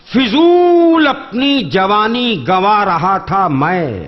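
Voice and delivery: measured, lingering verse delivery; poetry recitation. Acted. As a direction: recite each line slowly for effect. Mushaira couplet recital.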